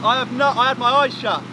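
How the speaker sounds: speaking round a gum shield; wearing a mouthguard. Real, not acted. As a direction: mouthguard muffling the words. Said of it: "Amazing what it does for your speech".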